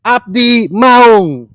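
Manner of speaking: slow growling tiger spirit voice; drawn out, spirit speaking through you; possessed. Pretend. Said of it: "coba pura-pura kesurupan".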